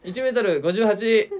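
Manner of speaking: contest announcer. Pretend. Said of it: "みたいな、や、言うから".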